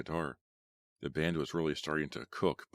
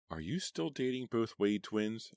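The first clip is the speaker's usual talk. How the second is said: slow, teeth clenched, higher; through clenched teeth; 6 semitones higher, slower than usual. Acted. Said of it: "she asked through clenched teeth".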